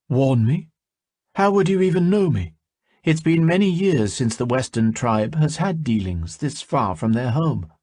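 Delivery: high, sharp disbelieving questions; a hint of a wary elf woman; alarmed elf woman. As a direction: press him, suspicious and startled.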